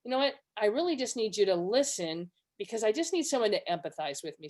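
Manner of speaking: calm, even-voiced request for empathy; measured request. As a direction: ask for it plainly, without frustration. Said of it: "I might just say something like".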